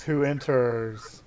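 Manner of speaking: echoing elemental voice. Acted. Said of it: "like, echoing from their forms".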